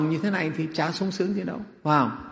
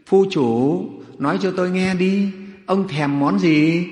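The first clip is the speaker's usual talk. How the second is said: higher, louder wheedling question; coaxing plea; 5 semitones higher, 5 dB louder, slower than usual. Acted. Wife begging her miser husband to name his craving, coaxing. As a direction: plead with him to tell you. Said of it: "lại năn nỉ tiếp".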